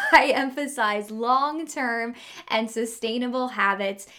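upbeat promo read for the membership; podcast ad read. Acted. Host pitching her program to listeners, ad read. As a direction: sell it to the listeners. Mid-episode promo break.

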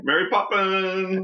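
high, slow, drawn-out title call; excited announcement. Acted. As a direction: announce it with delight.

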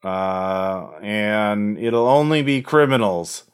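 slow, lightly gravelly bargaining villain; a hint of a cold negotiator. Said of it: "a gravelly voice".

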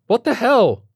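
high, loud stunned outburst; shocked. A narrator's reading. Doctor shocked hearing Stephen's news, loud and high. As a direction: blurt it in shock.

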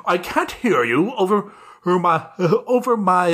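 lightly voiced oblivious old colonel. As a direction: play the deaf, blustering colonel lightly. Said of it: "oblivious Colonel character".

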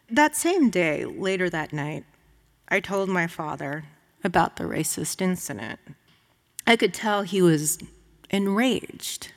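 measured literary reading voice; reading her outtake. Acted. Author reading her cut scene to the audience, measured. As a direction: read the cut scene aloud.

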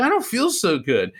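high, uneasy voice; feeling sick. Retold or imitated. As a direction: sound suddenly unwell. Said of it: "And I go".

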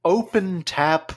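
slow, stately ad copy; lightly put-on slow announcer read; mock commercial read. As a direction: sell tap water like a pristine luxury. Improvised fake bottled water commercial.

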